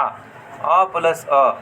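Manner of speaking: अ plus अ stretched slowly as a long vowel; slow long vowel demo. Shown as a demonstration. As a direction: hold the vowel long to show two measures. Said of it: "जैसे आ". (दीर्घ स्वर खींचकर)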